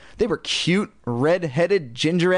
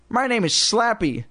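high ventriloquist's puppet voice; high, squeaky puppet; squeaky dummy voice; 7 semitones higher than usual. A narrator's reading. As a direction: introduce yourself as a squeaky dummy. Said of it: "squeaky voice".

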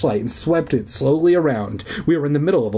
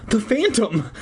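fearful cry; 11 semitones higher than usual. A narrator's reading. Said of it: "I cried".

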